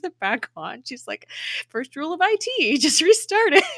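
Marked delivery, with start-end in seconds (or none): 1.7-3.6 much higher, giggling through it; laughing quip. Retold or imitated. Gemma joking to May after restarting the ship, laughing high. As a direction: squeal the joke while laughing.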